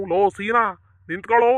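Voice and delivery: loud call to halt; insistent hail. Acted. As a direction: holler after a man who won't stop. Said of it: "ನನ್ನನ್ನ ಹಿಂಗ್ ಕೂಗ್ತಾರಲ್ಲ".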